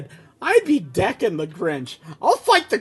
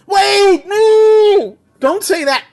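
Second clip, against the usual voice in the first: loud, high cry of protest; alarmed shout; 11 semitones higher, 8 dB louder, much slower than usual. Real, not acted. Reacting to the bad script line, a high shout. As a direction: yell at the script to stop.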